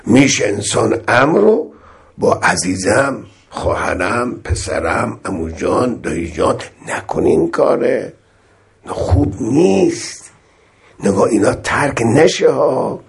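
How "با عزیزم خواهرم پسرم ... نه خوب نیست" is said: gentle coaxing. Shown as a demonstration. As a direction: coax a loved one kindly, no harshness. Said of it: "نرمتر و ملایمتر باشه". (نصیحت نرم و مهربان با صدای آرام)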